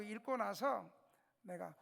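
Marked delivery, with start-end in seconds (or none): none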